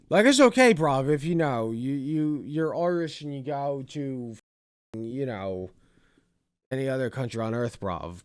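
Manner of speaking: a light mocking British bloke accent, bruv; lightly lampoon him in a British accent. Vlogger mocks the clip's speaker in a lightly done British accent. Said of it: "I'm just gonna do Brit Bonger".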